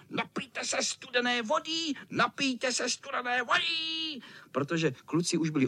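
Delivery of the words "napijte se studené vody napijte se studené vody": higher, mocking sing-song; mocking cat shout. Tomcat taunting breathless boys, mocking sing-song. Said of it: "křičel".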